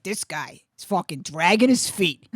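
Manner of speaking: slow, mildly exasperated grumble; lightly acted grievance; imitated complaining. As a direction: gripe like a worn-out husband. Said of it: "he's complaining".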